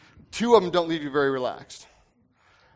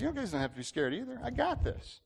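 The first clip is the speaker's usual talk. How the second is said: soft, higher-pitched easy reassurance; unafraid; 8 semitones higher, 5 dB quieter than usual. Acted. Quarterback telling his team not to be scared, unafraid. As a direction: imitate a quarterback quietly sure of himself. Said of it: "and he wasn't scared".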